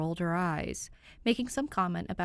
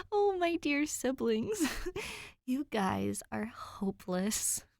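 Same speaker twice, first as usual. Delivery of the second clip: fond scolding; 5 semitones higher, slower than usual. A narrator's reading. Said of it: "shaking her head fondly".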